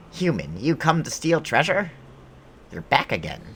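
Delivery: high, loud, swooping mock monster; goblin boss voice. Streamer voicing goblin boss to intruder, hammed-up creature voice. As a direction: put on an indignant goblin challenging an intruder.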